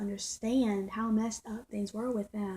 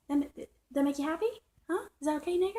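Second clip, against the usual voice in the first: raised, jeering mimicry of the neighbor; imitating his taunt; 6 semitones higher, faster than usual. Vlogger replays the neighbor's taunt, a lightly pitched-up jeer. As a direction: throw his taunt back in a higher voice. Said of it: "That's how it was like".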